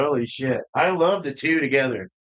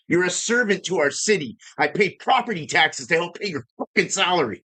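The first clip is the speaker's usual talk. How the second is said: wild rant; 2 semitones higher than usual. Retold or imitated. Retelling what he told the cop, heated and ranting. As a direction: vent at the cop, not quite shouting. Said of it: "I get a little wild sometimes".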